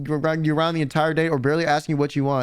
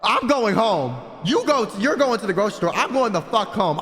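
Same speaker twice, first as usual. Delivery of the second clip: retold refusal; 3 semitones higher than usual. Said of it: "I literally said that to them".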